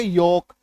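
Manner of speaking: योक with no L before the K; silent L. Shown as a demonstration. Teacher reading yolk after cutting the L, silent L. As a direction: say योक, long O straight into K. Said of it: "अब पढ़ो इसको".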